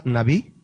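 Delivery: "nabí" with the accent on the last syllable; stress on final I. Shown as a demonstration. Pastor teaches the congregation a Hebrew word, "nabí" stressed on the final I. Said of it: "con acento en la I".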